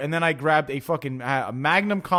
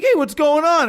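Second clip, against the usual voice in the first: loud, high mock hey; brash friendly hey, pitched up; cocky greeting; 10 semitones higher, 6 dB louder than usual. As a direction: greet him all cocky, toothpick in mouth. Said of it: "comes over and he's like".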